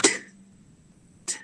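"ท" as a bare released t; "ท" tapped out with no vowel; hard final t. Shown as a demonstration. Teacher isolates the ending of eight, crisp bare "ท". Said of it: "ลงทอทหารหนัก".

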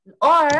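R said light, no trill; soft English R. Shown as a demonstration. Teacher telling Arabic students to soften the R. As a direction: ease the R sound. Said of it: "انتبهوا لي لمعلومة".

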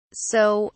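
"so," left hanging before a pause; pausing. A narrator's reading. Officer mocking Jay's bravery, pausing after "so,". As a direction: hold back after "so," as if choosing a word. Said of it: "he paused".

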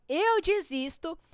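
slow, drawn-out "Eu desisto" with a rising end; mock-despair, stretching "Eu desisto"; dramatic give-up. Real, not acted. Desiste de falar tigre. ("Eu desisto" arrastado e dramático)

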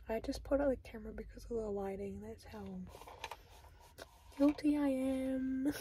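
talking with a retainer in; slightly thick speech around retainer; wearing a retainer. Real, not acted. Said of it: "I have my retainer in right now".

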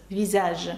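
"Візаж" with Z between the vowels; "Візаж", Z in the middle; S read as Z. Shown as a demonstration. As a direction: say French "Візаж" with a voiced Z. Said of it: "Тому це звук З".

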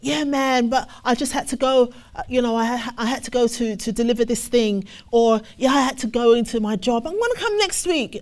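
lightly voiced breezy excuses; excuse-making listener. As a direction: make up a quick excuse to skip. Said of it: "I thought we were on the same level".

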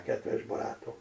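drops to a whisper on kedves barátom; hushed. Acted. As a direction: let the kedves barátom fade into breath. Az asszony halkan zárja mondatát. (elhalkuló suttogás)

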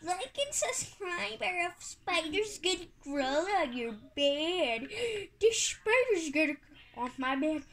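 lightly hammed-up YouTuber voice; imitating clickbait YouTuber alarm; mock YouTuber. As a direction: mimic an over-dramatic YouTuber, starting high. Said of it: "every other YouTuber channel be like".

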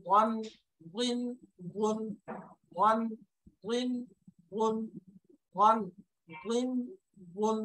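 "ওয়ান" with a short lift, then "গুন" repeated evenly; Arabic letter drill. Shown as a demonstration. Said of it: "তারপরে দাদ". ("ওয়ান, গুন" আরবি হরফ অনুশীলন)

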